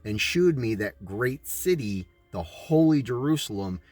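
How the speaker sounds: measured, even voice-over read; documentary narration. Acted. Narrator explaining scripture and cities, solemn voice-over.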